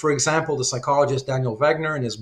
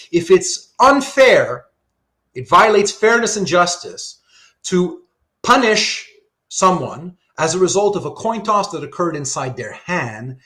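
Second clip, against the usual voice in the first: slower, louder, each word weighed; slow emphatic restatement; 4 semitones higher, 6 dB louder, slower than usual. Shown as a demonstration. Professor restating the argument slowly for students, deliberate. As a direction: spell it out slowly for the class. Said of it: "Let me say that again slowly".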